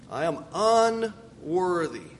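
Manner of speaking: bow your head as you say it; humble plea. Acted. Jacob confessing his unworthiness to God, humble and slow.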